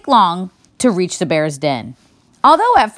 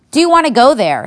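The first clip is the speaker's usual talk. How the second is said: put-on girl voice; 7 semitones higher, 5 dB louder, faster than usual. A narrator's reading. Mona wakes bear.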